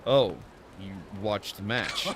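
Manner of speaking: hammed-up mock-Japanese old master; Temu Japanese accent. Old master greeting the arena winner, bad Japanese accent. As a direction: greet them in a badly faked Japanese accent. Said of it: "doing some Temu Japanese accent".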